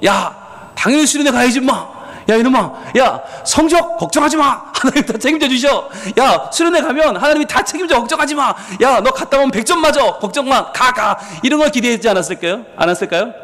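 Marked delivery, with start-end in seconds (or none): 0.0-11.2 higher, jovial backslapping buddy voice; hearty reassuring pastor. Retold or imitated. Imagined pastor cheering a worried student on, hearty and high. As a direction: play the easygoing pastor who promises everything. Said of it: "이런 걸 기대했겠죠".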